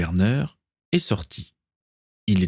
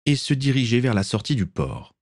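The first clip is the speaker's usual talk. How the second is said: usual speaking voice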